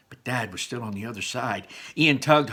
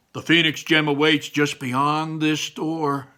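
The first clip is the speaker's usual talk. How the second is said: slow, slightly raised heroic announcement; grand quest voice; 4 semitones higher, 4 dB louder than usual. Acted. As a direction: proclaim it like a quest hero.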